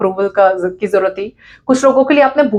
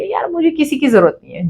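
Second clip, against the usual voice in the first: arrogant dismissal; 4 semitones higher than usual. Acted. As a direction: act like you need nobody. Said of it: "इतना ज्यादा arrogant बन जाएंगे".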